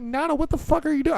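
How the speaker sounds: high-pitched, incredulous demand; retold protest at an intruding grandma; exasperated outburst. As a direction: pitch way up in disbelief. Acts out confronting his grandmother.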